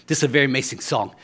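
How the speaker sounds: put-on a quick, light Cuban accent; fast and proud, a hint of a Cuban accent; Cuban broken English. Preacher imitating a Cuban musician introducing a song, light accent. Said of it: "he says".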